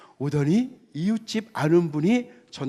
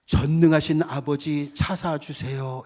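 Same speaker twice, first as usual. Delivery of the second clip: formal prayer; slower than usual. Shown as a demonstration. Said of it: "이거 틀리잖아요".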